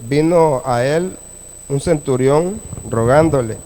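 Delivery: measured Bible reading with long pauses between phrases; scripture reading. A narrator's reading. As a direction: read the verse out phrase by phrase to a congregation. Lee el pasaje bíblico. (lectura bíblica pausada)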